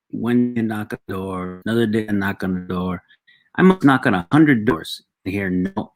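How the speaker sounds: put-on measured storytelling in a light Mexican accent. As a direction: play the salesman dad with a Mexican accent. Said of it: "give him an accent".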